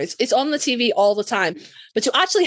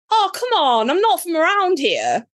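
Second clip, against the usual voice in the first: mock protest; 6 semitones higher than usual. Teased fan answering the actor, higher mock protest. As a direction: plead against the teasing, half-serious.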